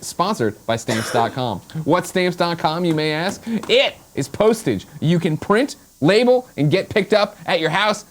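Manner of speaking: upbeat host pitching a sponsor; sponsor ad read. Real, not acted. Host pitching stamps dot com to viewers, ad read. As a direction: sell it with punched key words.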